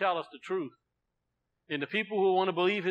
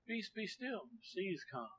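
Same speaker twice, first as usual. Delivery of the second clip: calm command; 3 semitones higher, 14 dB quieter, slower than usual. Retold or imitated. Master calming the storm.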